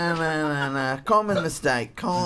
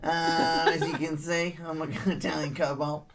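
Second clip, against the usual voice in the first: put-on Australian accent character; 4 semitones lower than usual. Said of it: "This accent is so real".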